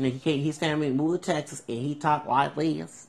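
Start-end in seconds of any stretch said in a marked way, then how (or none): 1.7-3.0 put-on Southern accent. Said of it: "he speak with Southern accent".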